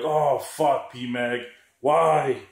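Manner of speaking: hammed-up complaining gun owner; mocking whiny buyer. Mocking the buyers who whine about broken mags, in a hammed-up whine. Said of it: "and they're like".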